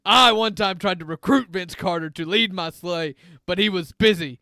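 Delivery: lightly voiced mall Santa, a bit scratchy. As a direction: play a grumpy smoker Santa, only slightly put on. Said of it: "It's a very scratchy voice Santa".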